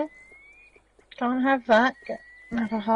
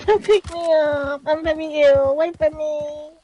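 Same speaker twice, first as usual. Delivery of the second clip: feeble sick voice; 4 semitones higher, 4 dB louder than usual. Pretend. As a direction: whine like you're too ill. Playing a sick character.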